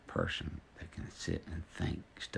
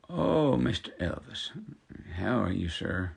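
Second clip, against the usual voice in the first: surprised lady; 4 semitones higher, 7 dB louder than usual. Retold or imitated. Bank teller greeting a singer.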